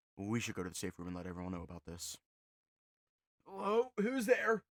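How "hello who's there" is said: quavering, trembling, very high-pitched call. Reading a story aloud, a voice calling out from the dark: trembling voice. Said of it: "A trembling voice came".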